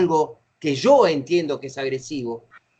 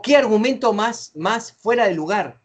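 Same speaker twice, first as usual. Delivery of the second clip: raised-pitch mock indignation; exclaimed objection; 5 semitones higher than usual. Shown as a demonstration. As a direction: start high, exclaim the objection. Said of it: "Todos signos de, de admiración".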